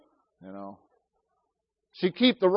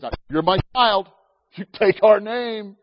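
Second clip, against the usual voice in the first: louder, scolding kids with mock threat; stern parental warning; 7 dB louder than usual. Parents warning their kids not to embarrass them, mock stern. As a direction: lay down the law like a parent. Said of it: "my wife and I tell my kids".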